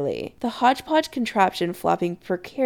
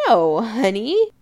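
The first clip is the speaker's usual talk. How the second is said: slow, louder motherly dismissal; amused; 2 semitones higher, 5 dB louder, slower than usual. A narrator's reading. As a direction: dismiss it fondly, drawing it out. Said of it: "Kim says with a laugh".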